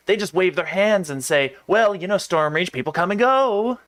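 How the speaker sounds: lightly voiced southern reporter; a touch of gruff southern newsy. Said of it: "gruff newsy".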